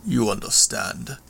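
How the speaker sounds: lightly voiced villain, halting and restrained; a hint of a proud brute, phrase by phrase; understated menace; menacing villain monologue.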